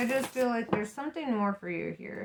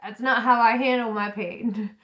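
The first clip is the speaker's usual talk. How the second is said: laughing retort; 7 dB louder than usual. Retold or imitated. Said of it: "And it's like".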